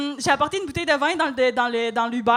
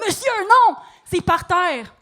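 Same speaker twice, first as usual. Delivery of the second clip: protesting cry; 4 semitones higher, 4 dB louder, slower than usual. Retold or imitated. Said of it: "Mais j'étais comme".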